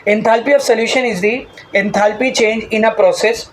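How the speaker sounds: slow, drawn-out dictation of a definition. Shown as a demonstration. Teacher dictating a definition to the class, slowly. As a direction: spell it out slowly for note-taking. Reads definition aloud for notes.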